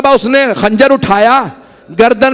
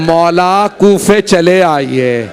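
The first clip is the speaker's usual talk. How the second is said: pleading call; 6 semitones lower, much slower than usual. Acted. Muslim's plea quoted, shouted.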